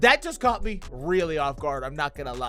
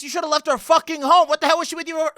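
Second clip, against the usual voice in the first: exasperated scolding; 8 semitones higher, 5 dB louder, faster than usual. Real, not acted. Scolding the absent sister.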